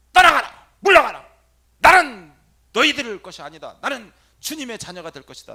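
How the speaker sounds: very loud, high commands to spirits; commanding exorcism shout. Shown as a demonstration. Priest shouting the exorcism command at evil spirits. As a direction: cast them out with full force.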